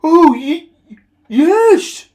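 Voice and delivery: very high, loud stammered yes; eager yes. A narrator's reading. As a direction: blurt out your eager agreement. Henry eagerly agreeing.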